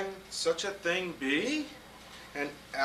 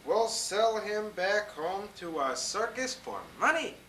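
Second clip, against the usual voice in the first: higher, eager exclaiming; excited hunters; 7 semitones higher, 4 dB louder than usual. Acted. Hunters amazed at the elephant, excited exclaiming. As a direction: gush with amazement and greed. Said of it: "they all shouted".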